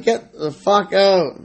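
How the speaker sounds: high, slow retold order to get out; mock angry yell. To his friend in the stolen car, high slow mock yell. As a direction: drag it out like a half-shouted demand. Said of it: "I'm like".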